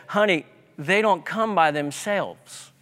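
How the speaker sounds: lightly imitated southern drawl of a Texas grandma; a touch of Texas accent, as if quoting nanny. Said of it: "saying in her Texas accent, southern drawl".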